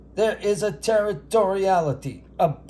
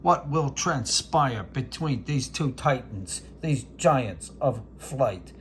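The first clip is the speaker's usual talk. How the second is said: Howard Cosell. Acted. Announcing the robin and dove rivalry as a hammed sportscaster. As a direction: build the bird standoff like a title bout. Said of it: "This is Howard Cosell".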